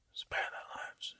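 slow, breathless sinister whisper; wizard whisper. Acted. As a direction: hiss it like a scheming wizard. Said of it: "the wizard".

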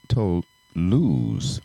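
mock French accent on the name. Shown as a demonstration. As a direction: say it with a put-on French flair. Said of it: "That's my French accent".

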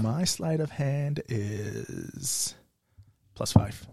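breathy whisper for stealth. Real, not acted. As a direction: whisper the number. Rogue stating stealth roll.

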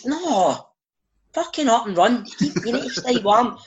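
high, barking mock coach order; gruff coach. Coach ordering sub to keep warming up, high mock bark. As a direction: chase the sub back out like an old coach. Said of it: "sits, Archie".

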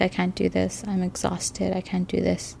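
retold crying plea. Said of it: "I would, like, cry and be like".

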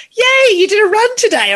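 high, bright cheer of encouragement; cheering stranger. Retold or imitated. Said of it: "all these strangers going".

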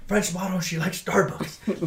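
lightly imitated Mexican accent, drawn-out ending; a hint of Mexican accent, slowing down. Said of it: "He said it in his Mexican accent".

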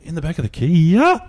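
bursting into laughter mid-answer; laughing. Real, not acted. Laughing as he tells his cohost about the Kia. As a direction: laugh through the words. Laughing while recalling the ride.

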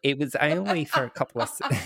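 mock Australian breaking into laughter; Australian accent. Witness recalling seconds, Australian accent dissolving into laughter. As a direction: start in an Australian accent, then crack up. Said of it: "doing single-handedly to the Australian accent".

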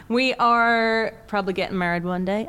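a hint of American Southern accent; bad Southern accent. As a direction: keep up the shaky Southern act. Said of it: "so that was a really bad accent".

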